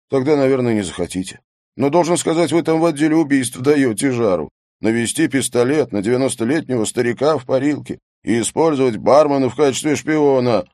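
high, lively gossiping; chatty excitement. Acted. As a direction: rattle it off with relish.

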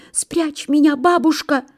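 high, pleading little voice; frightened hare. A narrator's reading. Hare begs the old pine to hide him, high plea. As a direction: plead in a high storybook panic. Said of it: "Заяц заметался".

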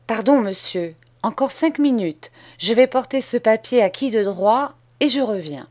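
put-on a boy laying out terms, steady and sure; bold schoolboy. Boy delays the master.

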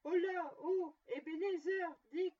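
put-on jolly old boss bellowing for his apprentices; jovial booming call. A narrator's reading. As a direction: call the boys like a big merry old master. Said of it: "appela d'une voix puissante, sonore, riche, pleine et joviale".

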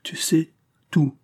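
high, slow, dismayed question; understated appalled disbelief; horrified realisation. A narrator's reading. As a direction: draw it out as the dread sinks in. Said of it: "s'écria madame Fauvel épouvantée".

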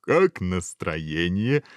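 slow, drawn-out cheerful question; hopeful, stretched-out inquiry; beaming smile. Acted. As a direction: ask with a tired but radiant smile. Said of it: "но с лучезарной улыбкой".

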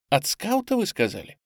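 от скаута leaps up high on скаута in disbelief; astonished question. A narrator's reading. Boy asks back in disbelief, high rising скаута. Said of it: "мальчик изумлённо воззрился на меня".

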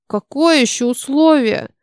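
put-on timid high-pitched little boy; thin little voice. A narrator's reading. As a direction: ask in a small, thin, scared voice. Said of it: "тонким голоском спросил Гена".

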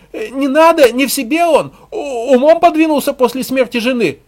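high, loud squeak of a woman from a crowd; squeaky female voice. A narrator's reading. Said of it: "пискнул женский голос из толпы".

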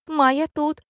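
high, loud piping reply; squeaky girl. A narrator's reading. Blonde lying down reporting to director, squeaking. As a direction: pipe up from the floor, very high.

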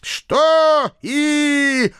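high, loud prodding; drawn-out, insistent query; demanding question. A narrator's reading. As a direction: pounce on his unfinished sentence. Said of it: "одновременно спросили обе жертвы".

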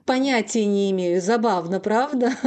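cracked, unhinged laughter, half crying; hysterical laughing. Acted. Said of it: "истерически расхохотался".

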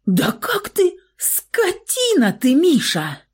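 высокий, срывающийся от злости возглас; выкрикнуть обвинение гораздо выше обычного; возмущённый выкрик. A narrator's reading. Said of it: "выкрикнула девушка". (гневно выкрикнуть)

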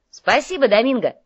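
high, loud, cheery thank-you; eager thanks. Acted. Young courier thanks Domingo for a tip, loud and cheery. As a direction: call out thanks with youthful zest.

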